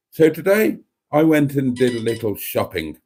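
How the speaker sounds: composed, even presenter delivery; calm and measured. Acted. Starting a mock shopping video again, calm and measured. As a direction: keep a measured composure for the audience. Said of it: "I've gotta be calm and measured".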